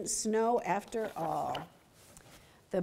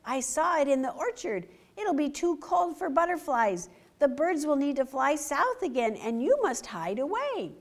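urgent fox; 5 semitones higher than usual. Acted. Fox warns porcupine.

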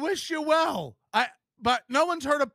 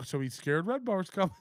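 mock quote; 5 semitones lower, 5 dB quieter than usual. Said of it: "they pause it and go".

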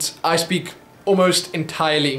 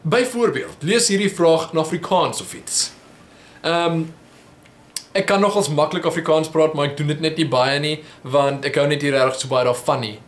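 Afrikaans with a heavy English accent. Real, not acted. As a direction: speak Afrikaans like a rusty English speaker. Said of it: "terrible accent".

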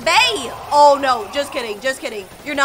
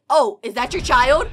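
ordinary talk, nothing marked

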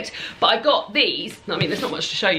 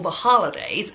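put-on American pronunciation of a phrase; awful American accent. Shown as a demonstration. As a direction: briefly attempt a clumsy American accent. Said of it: "Sorry about that awful accent".

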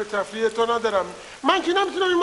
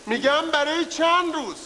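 raised voice; 5 semitones higher, slower than usual. Acted.

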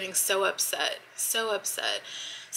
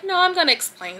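retelling a firm refusal, much higher and louder; raised-voice mock courtroom defiance; insistent, talking over; 10 semitones higher, 7 dB louder than usual. Witness retelling how they talked over the attorney, loudly insistent. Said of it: "I just talked louder".

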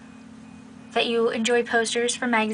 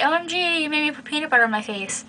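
put-on girly whine; 3 semitones higher, 3 dB quieter than usual. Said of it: "my mandatory girly".

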